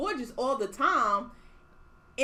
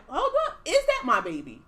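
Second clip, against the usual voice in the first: mock surprise; 2 semitones higher than usual. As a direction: play it like a stunned mom doing a double take. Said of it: "I'm gonna be like".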